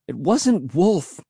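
high, drawn-out stubborn protest; child digging their heels in; stubborn cry. Acted. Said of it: "I cried stubbornly".

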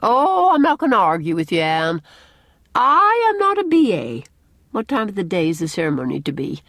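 high, loud opening settling into a brisk question; huffy matron giving up the debate; Mrs. Rachel Lynde, huffy. A narrator's reading.

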